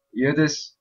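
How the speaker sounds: ordinary talk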